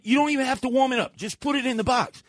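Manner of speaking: mock exasperated. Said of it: "I said".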